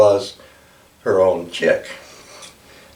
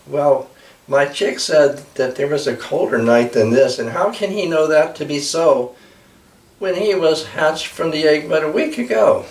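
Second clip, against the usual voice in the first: much higher, wondering bird voice; puzzled mother eagle; 7 semitones higher than usual. Acted. Mother Eagle puzzles to the blackbird, much higher. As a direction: ask it high and baffled.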